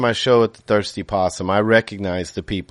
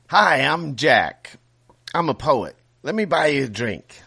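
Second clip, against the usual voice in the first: put-on Irish accent; 6 semitones higher than usual. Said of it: "said the first one in a foreign accent".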